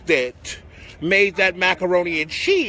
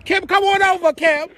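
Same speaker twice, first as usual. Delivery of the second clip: calling out; 7 semitones higher than usual. Real, not acted. Calling Kim to join live.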